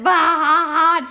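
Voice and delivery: loud drawn-out bah ha ha; mock laugh. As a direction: read the laugh out big and slow. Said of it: "Suzanne said".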